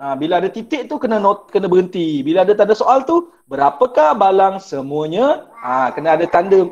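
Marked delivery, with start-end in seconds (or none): 3.5-5.5 "Berapakah balang semuanya?" read slowly with the tune rising at the end like a real question; question intonation. Shown as a demonstration. Teacher shows pupils how a question should sound: rising question intonation. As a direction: ask it, let "semuanya" lift at the end. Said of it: "ada intonasi macam bertanya".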